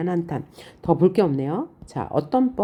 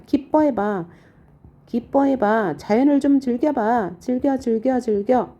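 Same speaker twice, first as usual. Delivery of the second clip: mildly excited coaxing, higher voice; joyful urging; 5 semitones higher than usual. Acted. Poet telling sister to enjoy nature, joyful urging. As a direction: urge cheerfully in quick repeated nudges. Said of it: "이 화자는 지금 즐거운 감정이에요".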